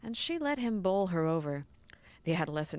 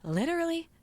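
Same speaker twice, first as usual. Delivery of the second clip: exasperated; 11 semitones higher, 5 dB louder than usual. Acted. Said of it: "she said, exasperated".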